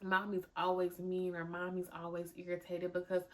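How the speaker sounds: a host closing her episode with prayer. Acted. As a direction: pray quietly over the listeners. Prays for the listeners.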